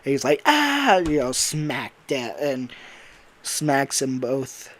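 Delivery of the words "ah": high, loud acted yell; mock scream. Monty smacked by a cart, mock scream. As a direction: yell out as if suddenly struck.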